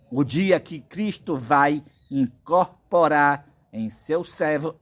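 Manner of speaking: ordinary delivery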